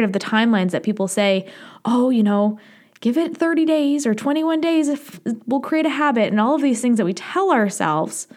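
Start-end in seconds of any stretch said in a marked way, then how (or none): 1.8-6.3 lightly mimicking breezy advice-givers; mock glib advice. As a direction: toss out the advice with pitch lifting. Voicing people's glib timeline advice.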